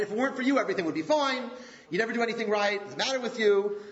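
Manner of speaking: understated blamer pointing the finger; blaming accusation. Acted. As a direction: lightly act the accusing partner. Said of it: "The blamer always sees".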